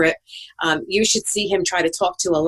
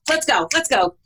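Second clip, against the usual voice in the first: urging someone to hurry; impatient; 4 semitones higher than usual. Retold or imitated. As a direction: hurry them along, a bit higher. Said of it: "a New York girl from Brooklyn".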